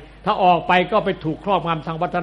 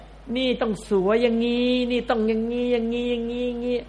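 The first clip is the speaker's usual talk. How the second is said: mimicking TV critic; 4 semitones higher than usual. Imitating TV critics' contradictions. (ล้อเลียนนักวิจารณ์ในทีวี เสียงสูงแล้วค่อยเบาลง)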